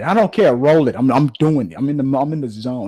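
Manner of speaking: hammed-up actor who won't wait; bossy star actor ordering the crew to roll; mock insistent star. Actor brushes off the director.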